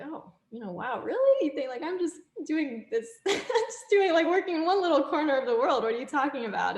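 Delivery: high, laughing, incredulous reply; brushing off dad's praise with a laugh; laughing disbelief. Retold or imitated. Her laughing disbelief at dad.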